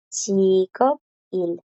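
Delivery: second careful take of 직업일; repeated Korean model. Shown as a demonstration. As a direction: repeat 직업일 clearly for students.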